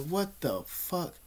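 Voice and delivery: hushed, slow, drawn-out amazement; stunned disbelief. Retold or imitated. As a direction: re-enact quietly gawking in disbelief. Acting out amazement at girls.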